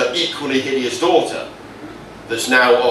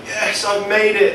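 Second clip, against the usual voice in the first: nettle triumph; 8 semitones higher, slower than usual. Acted. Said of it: "And he's like".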